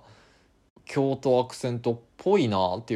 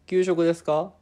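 lightly voiced questioner, raised pitch; a hint of someone asking about lunch; 8 semitones higher, 5 dB louder than usual. Host voicing a question to set up the answer, slightly higher. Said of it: "かな？".

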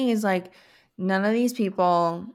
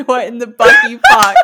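louder, laughing through the catchphrase; laughing mock line; 4 semitones higher, 11 dB louder than usual. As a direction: deliver it like a silly book title. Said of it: "make a Doctor Seuss book".

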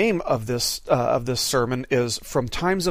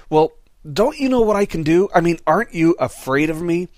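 higher, louder menacing devil voice; Satan; 4 semitones higher, 5 dB louder than usual. Acted. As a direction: taunt him like a threatening devil. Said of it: "Satan says".

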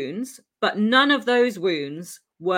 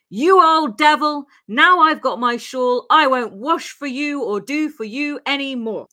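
higher, louder retold scolding; acted indignant outburst; 6 semitones higher, 5 dB louder than usual. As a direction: act out her telling him off, pitched up and emphatic. Quoted insult in a retold argument.

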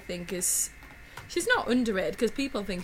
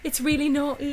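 put-on higher, louder giggly girl voice; mock-scandalised kid, higher and louder; 6 semitones higher, 4 dB louder than usual. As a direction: squeal it like a naughty child. Kids giggling over naughty film.

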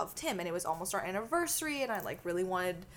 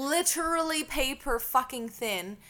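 slow, higher, punched "literally paper fucking thin"; emphatic; 5 semitones higher, slower than usual. Real, not acted. Repeats it for emphasis.

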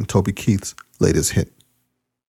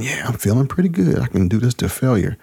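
cocky inner voice; 4 semitones higher than usual. Retold or imitated. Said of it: "I'm thinking".

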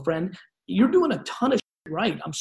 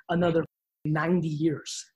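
slow and deliberate, word by word; over enunciating. Shown as a demonstration. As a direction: spell it out slowly, right to their face. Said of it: "let me say it slowly to your face".

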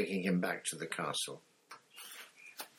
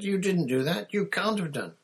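much higher, louder cry of disbelief; disbelieving boy; 12 semitones higher, 5 dB louder than usual. Acted. Harry cries out at Moody in disbelief. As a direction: refuse to believe it.

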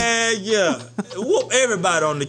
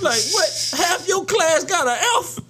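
scolding principal; 10 semitones higher than usual. Acted. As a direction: act shocked at the bad grades. Scolding a failing teacher.

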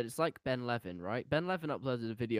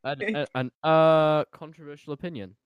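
mocking stumble; 3 semitones higher, 8 dB louder than usual. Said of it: "the way I made fun of that".

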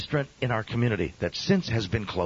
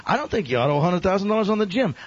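higher, louder, fast insistence; insistent; 8 semitones higher, 5 dB louder, faster than usual. Retold or imitated. Stranger pushing the pastor about the gym debt, insistent. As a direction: press the point home impatiently. Man insists, repeating his point.

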